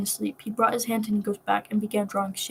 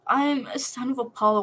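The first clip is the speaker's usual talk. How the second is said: mild sob; 3 semitones higher than usual. Acted. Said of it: "Will sobbed".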